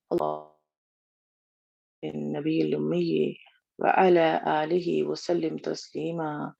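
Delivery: slow, measured recitation of Arabic prayer; closing prayer. Acted. Teacher closes the class with a devout prayer recitation. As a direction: recite it slowly and devoutly, word by word.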